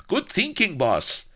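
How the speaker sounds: lightly voiced gleeful lackey, high; chortling henchman. A narrator's reading. Enchilada flatters his boss, lightly chortling. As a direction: chirp mild approval upwards. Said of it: "chortled Enchilada".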